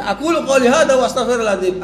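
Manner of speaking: brisk, lightly hammed-up sermon closing; preacher closing a sermon. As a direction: recite it like the formal close of a Friday sermon. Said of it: "Kayak orang khutbah".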